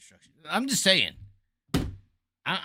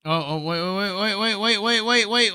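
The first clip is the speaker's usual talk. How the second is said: urgent wait; 7 semitones higher, 3 dB louder than usual. Real, not acted. Streamer suddenly spots something.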